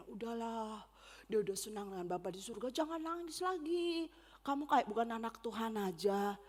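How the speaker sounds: imitating a mourner's dismissive comforter; well-meaning consoler. Funeral guest telling the bereaved to stop crying, dismissive hushing. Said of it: "ada orang di dekat saya bilang".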